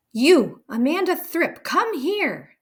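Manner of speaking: high, loud, booming command; furious headmistress. A narrator's reading. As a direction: roar at the child to come. Trunchbull summons the girl.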